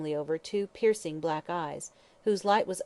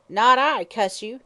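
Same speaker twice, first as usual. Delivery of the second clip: much louder, higher spiteful hag; mock polite retort; 4 semitones higher, 10 dB louder, slower than usual. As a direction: spit it back rudely. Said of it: "she retorted politely".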